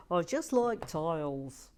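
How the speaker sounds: loud lovesick tile proposal; mock tile lover. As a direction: swoon over tiles like a lover. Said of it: "John Parry".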